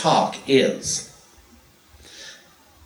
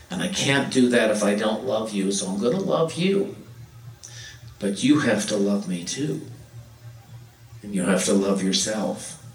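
gentle loving plea; 3 semitones lower than usual. Pretend. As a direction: speak it tenderly to family. Quoting what to tell siblings.

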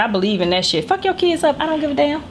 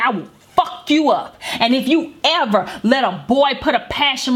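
retold threat; 4 semitones higher than usual. Mother threatening her daughter over the lie and the hickey. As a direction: lay each word down like a warning.

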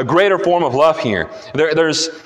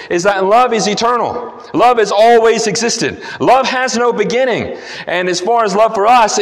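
raised, insistent sermon voice; emphatic preaching; 6 semitones higher than usual. Real, not acted. Preacher telling the congregation love comes from God, emphatic preaching. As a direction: preach it with conviction, pitched up high.

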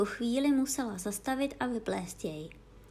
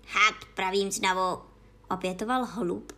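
ordinary delivery, nothing marked

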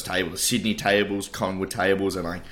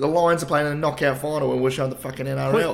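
indignant rant; 8 semitones higher, 5 dB louder than usual. Real, not acted. Outraged about wrong game shown.

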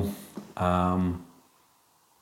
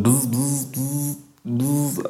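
buzzing; 5 semitones higher, much slower than usual. Pretend. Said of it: "make 'em buzz".

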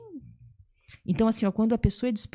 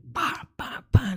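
percussive "pá, pá, pá"; smacking syllables in a row; imitated blows; 3 dB louder, slower than usual. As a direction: fire off mimed hits, building louder. Imitates a rapid telling-off.

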